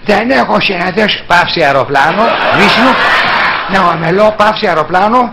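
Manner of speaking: pauses, smacks and closed vowels; all the tics together; full president impression. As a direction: do every quirk of the old president. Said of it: "τα βάζουμε όλα τα στοιχεία μαζί".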